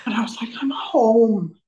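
high voice, close to crying; emotional. Real, not acted. Man overcome as he recalls being home, emotional. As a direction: push on through welling tears. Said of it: "I'm sorry, I'm emotional".

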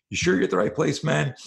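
lightly voiced cop asking a stranger; mock cop voice. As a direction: play a suspicious cop sizing him up. Imagined cops questioning biker.

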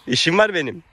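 stop, I have work, loudly; exasperated call. Real, not acted. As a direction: stop the horse following you. Horse follows her.

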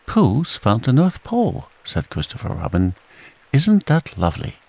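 a hint of an excited child; cheerful Christopher Robin. Christopher Robin proudly telling Eeyore of Pooh's find, bright and high.

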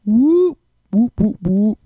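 loud whooping celebration; triumphant gamer whoops; whoop cheer. Real, not acted. Celebrating a kill.

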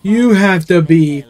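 slow, stretched-out swearing; drawn-out frustrated groan; exasperated disbelief. Real, not acted. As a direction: drag it out into a long stuttering curse. Exasperated repeat while losing.

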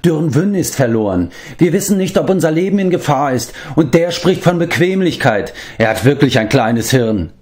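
high, exasperated bard; indignant scolding, pitched well up; Flevdur. A narrator's reading. Bard scolds the former giant's complaint, high-pitched exasperation.

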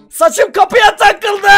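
high, slow drawn-out yell; hammed-up alarm at hair stuck in the door; stretched shout. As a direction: call out in mock panic, slowly.

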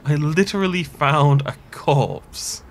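slow, exasperated and amused protest; amused disbelief. Real, not acted. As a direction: stretch it out, laughing in disbelief. Incredulous at game character's response.

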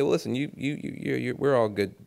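soft, low, confiding; gentle coaxing. Retold or imitated. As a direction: lean in and coax them quietly. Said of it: "I often ask people, I say".

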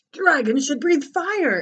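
slow, loud, high insistence; emphatic parental protest; insistent father. Acted. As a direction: stress it forcefully as a frustrated father. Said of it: "insisted Crespin's father".

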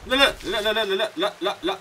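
repeated "لا" through laughter; laughing no. Real, not acted. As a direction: laugh in disbelief as it fails. Laughing disbelief at falling.

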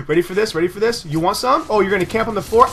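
hyped taunting. Real, not acted. Gamer taunting an opponent camping on the floor, hyped. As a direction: taunt them, riding the adrenaline.

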